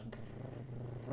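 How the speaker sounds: soft trilled "brrr"; imitated creature noise. Game master imitates the octopus summoning a fighter, soft trill. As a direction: roll out a quiet octopus noise. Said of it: "and he goes".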